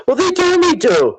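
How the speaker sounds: high, whiny put-on Betty voice; mock Betty. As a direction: squeak it out like a confused Betty. Mimicking Betty's innocent excuse.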